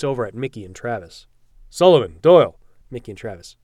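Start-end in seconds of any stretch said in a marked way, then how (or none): 1.7-2.6 loud barked names; calling out. Acted. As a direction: bark the names. Captain calls two soldiers.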